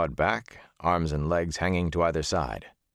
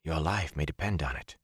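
remembered Moraine voice; 3 semitones lower, 5 dB quieter than usual. Acted. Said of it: "as if he had heard Moraine say it".

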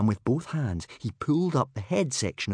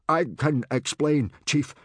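higher, louder, anxious explaining; flustered stammer; 7 semitones higher, 5 dB louder than usual. A narrator's reading. Gobber explains himself to his chief, flustered. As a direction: plead with the boss, flustered. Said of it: "stammered Gobber".

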